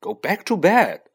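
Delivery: indignant command, rising in pitch and volume; furious. A narrator's reading. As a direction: send them off, furious. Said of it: "said Ron furiously".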